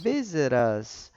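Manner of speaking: slow "Visit us." with t joined to us; linked visit us. Shown as a demonstration. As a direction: glide "Visit" straight into "us". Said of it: "transformei ela numa segunda palavra". ("Visit us" devagar e ligado)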